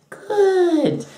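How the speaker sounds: high, loud "Good"; exaggerated squeal falling away; hammed-up loud approval; mock enthusiasm. Acted reply to the saleswoman.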